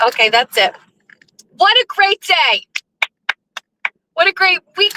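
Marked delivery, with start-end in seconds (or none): 1.6-4.9 high, happy exclaim; joyful. Real, not acted. Driver overjoyed after a great week, close to tears. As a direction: gush with happiness.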